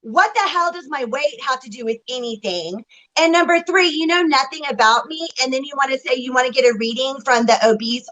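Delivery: indignant but controlled; firm, hurt and fed up; telling off a rude commenter, mildly angry; mild anger. Real, not acted. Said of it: "That was mild Susan angry".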